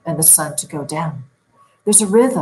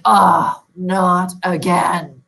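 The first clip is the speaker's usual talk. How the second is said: a drawn-out groan of annoyance, louder on Oh and slow on not again; frustrated groan; 4 dB louder, much slower than usual. Retold or imitated. Sleep coach imitating a client woken at night, frustrated groan. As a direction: sigh it like you've woken up yet again. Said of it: "Do I sound like I'm calm and resting? No".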